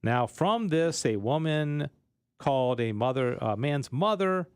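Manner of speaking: measured doctrinal reading; formal read-aloud with pauses between phrases. Acted. Reads a text aloud.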